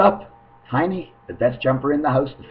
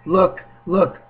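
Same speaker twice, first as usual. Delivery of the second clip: much higher, eager mock call; mock urging; 7 semitones higher, slower than usual. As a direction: imitate them pointing and urging. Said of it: "but they're saying".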